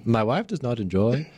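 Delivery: weak attempt at an Irish accent. Shown as a demonstration. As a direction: try a not very good Irish accent. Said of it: "I don't think that's a very good Irish accent".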